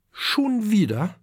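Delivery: a touch of parental impatience; mother answering her son, mildly impatient. Acted.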